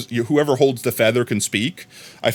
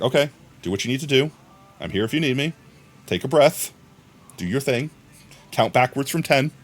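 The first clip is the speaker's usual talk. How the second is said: tag-free reassurance; 3 dB quieter than usual. Acted. Talking down an angry friend.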